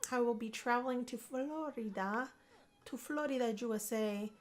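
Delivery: put-on light Puerto Rican accent, like her parents; a touch of Puerto Rican accent while announcing travel. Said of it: "I'm saying this in this accent".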